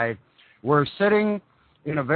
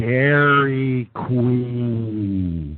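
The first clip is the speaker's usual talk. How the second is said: slow, unhurried, with "queen" drawn out; 3 semitones lower than usual. Retelling a woman's answer when asked where they are, imitating someone saying it slowly. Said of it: "say it real slow".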